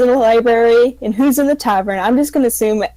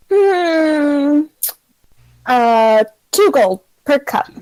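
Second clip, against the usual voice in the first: bartender voice; 5 semitones higher, much slower than usual. Acted. Bartender quotes price.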